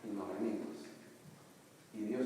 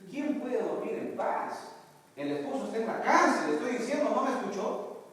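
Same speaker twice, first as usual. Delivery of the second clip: high, loud, desperate wife's voice; distraught wife shouting at her pastor, high and loud; frantic wife; 9 semitones higher, 3 dB louder than usual. Retold or imitated. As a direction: play the panicked wife, pitch way up and pushed. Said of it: "ella responde y me dice".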